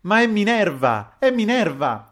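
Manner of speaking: high, loud cry; shouting. A narrator's reading. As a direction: call it out over the room. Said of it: "gridò Pepita Pantogada". (grido acuto e forte)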